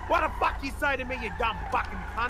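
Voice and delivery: angry shout. Acted. Acted pub fight with Aussie.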